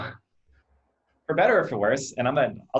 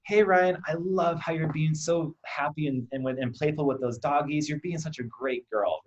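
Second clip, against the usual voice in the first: put-on bright, higher, eager praise for a toddler; a dad rushing over to praise his daughter, excited; 4 semitones higher than usual. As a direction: gush over her like a cheerful dad.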